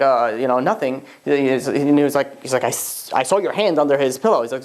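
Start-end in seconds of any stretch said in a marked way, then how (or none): 0.0-1.0 mildly halting, evasive mumbled excuse; lightly acted stammering denial; retold stammer. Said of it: "I start stammering". 2.6-4.4 halting false start, then the words; lightly acted stammer; retold stammer. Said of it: "I start stammering".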